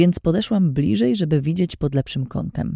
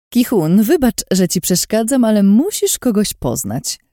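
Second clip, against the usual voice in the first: Lin's voice; 7 semitones higher, 4 dB louder than usual. Acted. Lin interrupts, voiced higher.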